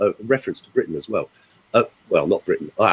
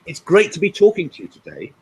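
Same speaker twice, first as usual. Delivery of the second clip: raised, one-to-one greeting; talking to one person; 6 semitones higher than usual. Shown as a demonstration. Coach showing everyone feels singled out, one-to-one greeting. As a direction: greet a single listener, pitched up. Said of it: "you all think I'm just talking to you".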